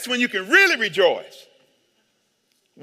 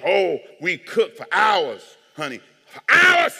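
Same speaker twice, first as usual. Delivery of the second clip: imitated family; 4 dB louder, slower than usual. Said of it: "And then they say".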